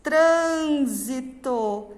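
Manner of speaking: "trânsito" slowly, with a lengthened first syllable; slow teacher's "trânsito", leaning on trân; slow word model. Shown as a demonstration. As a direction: present "trânsito" syllable by syllable, drawn out. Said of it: "a palavra".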